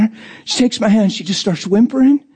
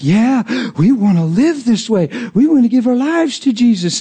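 rising, eager converts' chorus; imitated eagerness; 5 semitones higher than usual. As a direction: mimic their keen yes. Voicing new converts' eager answer.

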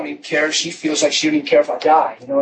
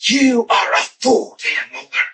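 mock bitter rebuke; 3 semitones higher than usual. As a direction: voice the wife's bitter jab. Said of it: "She was bitter, angry, frustrated".

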